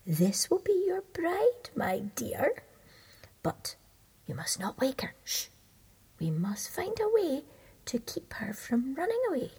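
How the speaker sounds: lightly voiced scheming old toad. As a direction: hush and plot as the old toad. Toad plots with son.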